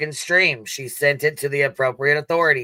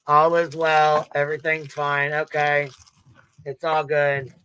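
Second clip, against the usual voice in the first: mocking quote; 3 semitones higher than usual. Mocking the crowd who just say it is all fine. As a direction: parrot a carefree shrug-it-off attitude. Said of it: "we're just supposed to be like".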